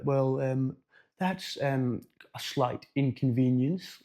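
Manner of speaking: hint of a silly posh British accent, drawn out; mock-posh, hesitant and measured; stupid posh voice. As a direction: lightly put on a slow, posh voice. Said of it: "like, a stupid wee posh voice".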